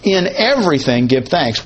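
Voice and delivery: "In everything" pressed hard, then "give thanks" falls away; stress on in everything. Shown as a demonstration. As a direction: lean on "In everything", let the rest drop. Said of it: "the emphasis is on in everything".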